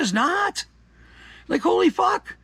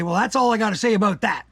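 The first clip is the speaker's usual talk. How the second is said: a hint of a tough wrestler signing off; Stone Cold Steve Austin. Quoting a wrestler to close his rant, lightly mimicking. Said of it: "as Stone Cold Steve Austin used to say".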